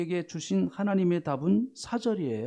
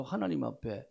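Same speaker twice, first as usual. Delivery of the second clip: usual speaking voice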